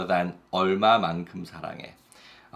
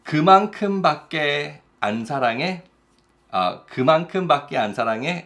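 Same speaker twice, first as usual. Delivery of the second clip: quick, higher, pouty complaint; sulky partner; 5 semitones higher, much faster than usual. Acted. Partner hurt by the small answer, pouting quickly. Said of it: "the other person might say".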